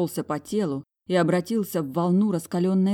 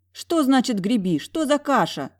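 indignant questions; 7 semitones higher, 4 dB louder than usual. A narrator's reading. Heroine demands answers.

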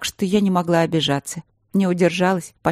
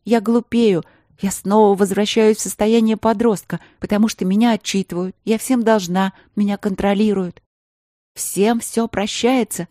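fervent plea; 5 semitones higher than usual. Acted. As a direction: pour it all out, desperate. Emotional outburst.

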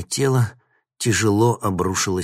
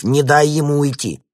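loud, higher barked command; barked order; 8 semitones higher, 9 dB louder than usual. A narrator's reading. Grekov commands Möbius to stop Vinnik, loud bark. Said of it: "гаркнул Греков".

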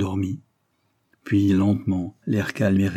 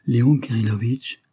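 cried out; 3 semitones higher than usual. A narrator's reading. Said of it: "s'écria tout à coup Vera".

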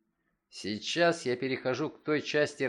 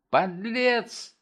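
loud, higher outburst of rage; furious shout; 9 semitones higher, 5 dB louder than usual. A narrator's reading. Enraged father shouting at his son, furious. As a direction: spit the insult out in fury. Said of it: "закричал я вне себя от ярости".

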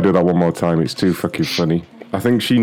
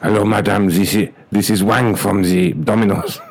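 clipped broken English, hammed-up Chinese accent; mock Chinese accent. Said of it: "as an Asian guy".

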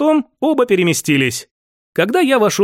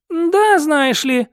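snorting; 9 semitones higher, much slower than usual. Acted. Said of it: "фыркнула она".

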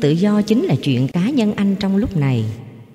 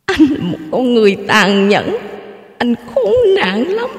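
high, loud, tearful outburst; sobbing accusation; 7 semitones higher, 4 dB louder than usual. A narrator's reading. Wife sobs and lashes out at her husband, tearful outburst. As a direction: cry out the accusation at him. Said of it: "khóc nức nở".

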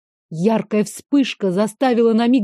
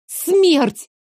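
high, loud cry of death; shout; 7 semitones higher, 3 dB louder than usual. Acted. Heroine answers Veyen in terror, shouting. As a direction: scream the word. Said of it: "закричала".

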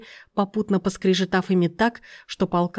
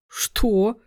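a touch of flaring indignation; indignant outburst. Acted. Aunt, offended at Lena, mildly indignant. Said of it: "взвилась тётушка".

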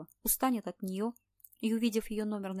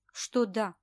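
taken aback; 6 dB louder than usual. A narrator's reading. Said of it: "опешил оператор".

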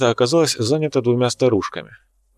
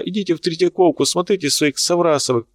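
indignant outburst; 7 semitones higher than usual. Acted. Artist keeps shouting back.

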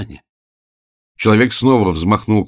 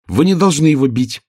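firm statement; 8 semitones higher, 5 dB louder than usual. A narrator's reading. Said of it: "твёрдо сказала Оля".

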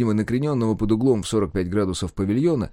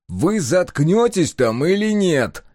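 slow, louder, higher angry demand; raised voice; 8 semitones higher, 4 dB louder, slower than usual. Acted. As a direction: raise your voice to shut them up. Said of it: "повысил голос Егор".

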